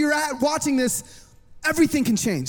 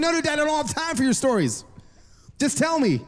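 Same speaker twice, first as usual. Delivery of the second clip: higher-pitched mock protest; impatient son; 4 semitones higher than usual. Son has no time for dad's stories, impatient. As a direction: cut dad off, retelling your own impatience.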